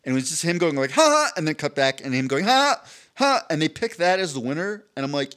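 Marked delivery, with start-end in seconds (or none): 0.9-1.3 imitating the co-host's dumb laugh, high and loud; a braying fake laugh; mock jackass laugh. Mocking the co-host's laugh clip, jackass laugh. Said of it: "laughing like a jackass". 2.4-3.4 imitating the co-host's dumb laugh, high and loud; a braying fake laugh; mock jackass laugh. Mocking the co-host's laugh clip, jackass laugh. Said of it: "laughing like a jackass".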